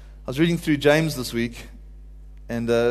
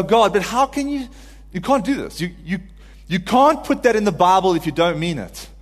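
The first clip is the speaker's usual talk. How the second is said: higher, incredulous protest to God; heartfelt, raised-pitch challenge; crying out to God; 4 semitones higher, 3 dB louder than usual. Retold or imitated. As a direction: plead and argue with God, stumbling over the words. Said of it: "my cry in my heart".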